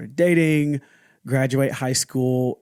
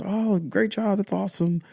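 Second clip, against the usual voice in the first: higher-pitched, lightly acted approval; mild praise; 8 semitones higher than usual. Dad praising his child's medals, mildly pleased. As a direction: offer approval in a raised, easy voice.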